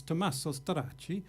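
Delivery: hammed-up Italian accent on the name Tommaso Stracci; terrible Italian accent. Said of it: "that was a terrible accent".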